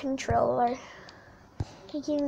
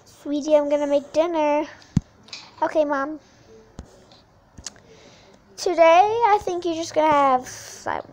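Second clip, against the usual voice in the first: playing mom. Kid playing mom tells daughter about dinner, lightly voiced mom. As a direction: call to your child like a busy mom.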